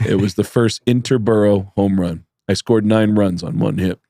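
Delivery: low, deadpan tall-tale boast; understated, matter-of-fact bragging; Judah Friedlander. Retold or imitated. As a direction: lightly imitate a comedian bragging nonchalantly. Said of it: "And Judah goes".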